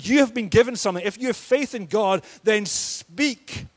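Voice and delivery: fervent preaching. Retold or imitated. Preacher voicing Jesus' charge.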